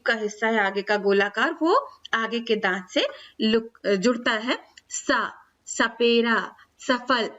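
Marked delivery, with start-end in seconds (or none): 4.9-7.3 सा सपेरा सफल slowly, dental s with the tongue tip on the teeth; slow dental s demo. Shown as a demonstration. Teacher shows pupils the dental s, said slowly. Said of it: "ऐसे बोलते हैं".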